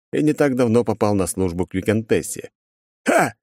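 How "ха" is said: short high "ha"; triumphant cry. A narrator's reading. Shooter celebrates his hit, triumphant. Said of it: "крикнул стрелок".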